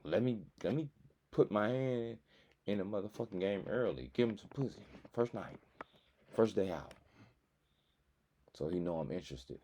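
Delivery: playing the girl plotting her move; voicing a woman. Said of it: "She like".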